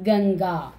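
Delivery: Ganga with the dot sounded ng; dot as nga. Shown as a demonstration. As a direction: say Ganga with a velar nasal before the g. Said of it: "that line's last letter pronunciation. Nga".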